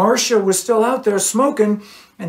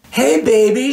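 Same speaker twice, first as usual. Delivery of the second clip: flirty; 8 semitones higher, 6 dB louder than usual. A narrator's reading. Cheryl flirts with rock star.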